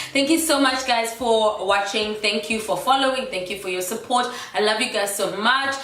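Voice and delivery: stuffy nasal voice from a cold. Real, not acted. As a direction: talk through a blocked, nasal nose. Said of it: "Forgive the nasally voice".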